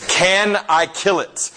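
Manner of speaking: insistent repeat. Retold or imitated. Angel pressing spirit, repeated ask.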